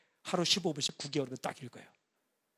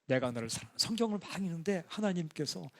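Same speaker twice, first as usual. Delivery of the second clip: tender divine voice; 4 semitones lower than usual. Retold or imitated. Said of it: "딱 하나 들었어요".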